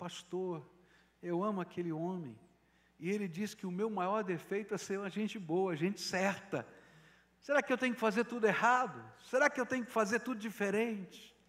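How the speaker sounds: high, tearful put-on crying. Retelling what a wife said while arriving in tears: imitating someone crying. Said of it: "chegou no meu gabinete chorando e falou assim".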